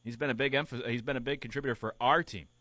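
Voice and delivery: "our" hit hard in "for our team"; stress on our. Shown as a demonstration. Radio host rereads Kershaw, stressing "our". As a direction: underline "our" in "a big contributor for our team". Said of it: "adding the emphasis".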